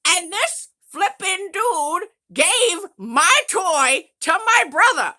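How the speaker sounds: mock grievance. Real, not acted. Still-sore grievance, slowed and emphatic.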